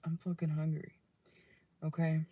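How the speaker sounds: unvoiced whisper, a quick private complaint; whispered aside. Real, not acted. Tarot reader muttering to herself about being hungry, whispered. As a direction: whisper it under your breath.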